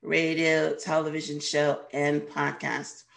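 raspy, worn voice from a cold; hoarse and under the weather; sick voice. Real, not acted. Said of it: "Excuse my voice, I'm a little under the weather today".

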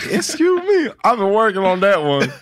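a showman's high-pitched self-intro; hyped-up high intro. Acted. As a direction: pitch jumps way up, laughing into it. Hyped intro after weak take.

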